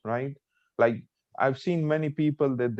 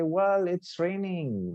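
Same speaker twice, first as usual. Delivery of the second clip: high, drawn-out delighted exclamation; very happy; 7 semitones higher, slower than usual. Shown as a demonstration. Rain after a long time, very happy. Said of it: "Like, you're very happy".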